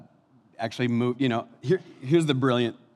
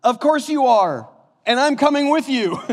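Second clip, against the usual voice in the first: high, loud hammed-up loyal sidekick; Sam; 14 semitones higher, 10 dB louder than usual. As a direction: cry out devotedly in a high put-on voice. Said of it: "you remember what Sam says".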